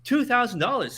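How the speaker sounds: high, loud disbelief; incredulous. Real, not acted. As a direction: hammer the sum in disbelief. Incredulous repeat of amount.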